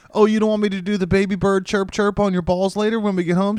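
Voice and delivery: high, loud teasing voice; mocking girlfriend voice. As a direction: play the taunting girlfriend. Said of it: "she's like".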